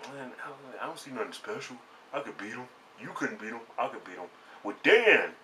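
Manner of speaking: high-voiced imitation of a boastful teenage son; cocky son. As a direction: imitate the cocky kid talking trash in a high voice. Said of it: "he's kinda cocky".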